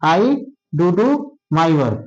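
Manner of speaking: "do do" joined, then a pause before "my work"; wrong grouping. Shown as a demonstration. Teacher warning students off a misreading, "do do" grouped together. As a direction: pair the two "do"s and break before "my". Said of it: "अब तुम ऐसे ना पढ़ दो".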